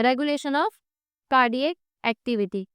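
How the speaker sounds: reads out the new topic slowly; slow heading read. Shown as a demonstration. Teacher announces the new topic to the class, slowly.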